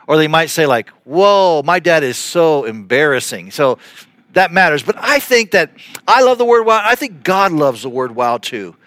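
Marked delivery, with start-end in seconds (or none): 1.0-3.5 embarrassed whoa. Pretend. Kids mocking their embarrassing dad, mild cringe. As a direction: sound like a kid cringing at his dad. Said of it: "the intonation matters".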